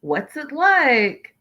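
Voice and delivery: high slow mock-sweet questioning; a hint of a bubbly girl asking questions; mock curious girl. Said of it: "Tiffany girl who was like".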